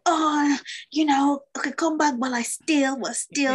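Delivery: high, wary mock welcome; hesitant welcome. Africans greeting returning African Americans, high and wary. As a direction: say it high, welcoming but holding back. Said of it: "Our faces will be like".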